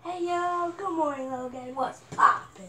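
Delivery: hyped vlogger greeting; pumped-up channel intro; YouTuber intro voice. Pretend. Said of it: "that's probably how I'll do mine".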